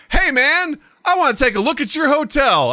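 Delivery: high, loud mock-pimp voice; pimp impersonation. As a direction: play a pushy man at the hotel desk. Voicing a pimp in the lobby.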